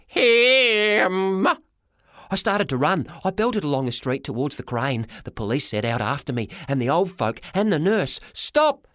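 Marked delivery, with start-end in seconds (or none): 0.1-1.5 loud higher accusing shout; yell. A narrator's reading. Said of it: "he yelled". 8.3-8.9 high shouted stop; scream. A narrator's reading. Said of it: "they screamed".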